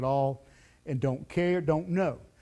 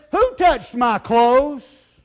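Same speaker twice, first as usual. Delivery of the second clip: slow, louder, searching question; a hint of Jesus, slow and louder; Jesus asking the crowd; 5 semitones higher, 10 dB louder, much slower than usual. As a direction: draw each word out slowly as Jesus. Jesus turns, asks the crowd.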